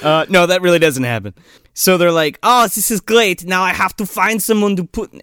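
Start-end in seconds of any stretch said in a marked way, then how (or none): 2.4-5.1 slightly raised, loose mock German accent; bad German accent. Doctor needing someone for his T-Rex, bad German accent. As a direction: do a half-hearted German doctor. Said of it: "His German accent isn't even that good".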